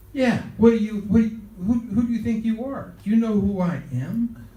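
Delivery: retold angry demand, pushed up in pitch; indignant confrontation. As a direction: challenge them like an offended big shot. Acted angry confrontation by Sinatra.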